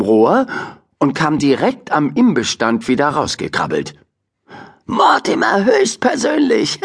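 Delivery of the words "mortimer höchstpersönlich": high cheeky rat voice; high cheeky rat greeting. Acted. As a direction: greet him like a sassy little rat. Rat Cooper greets Mortimer.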